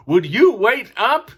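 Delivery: a hint of a whining kid; whiny kid. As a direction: beg them to wait. Kid pleading with friends.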